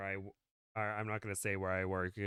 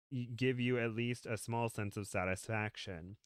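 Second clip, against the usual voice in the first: story narration; 2 semitones higher than usual. Acted. Reads a story aloud.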